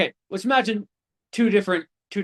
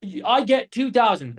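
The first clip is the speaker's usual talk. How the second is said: higher, slow fumbling pitch; sounding like an idiot; 4 semitones higher, slower than usual. Retold or imitated. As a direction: stumble through it like a clueless rookie. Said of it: "I sounded like an idiot".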